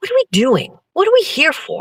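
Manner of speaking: animated delivery with wide, swooping pitch swings. Repeating own questions as a Tucker Carlson impression. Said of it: "the guy on Saturday Night Live who does Tucker Carlson impression".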